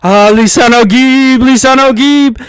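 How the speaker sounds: hammed-up awed elder; Stilgar impression. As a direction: hail him like a zealous believer. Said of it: "it's just Stilgar like".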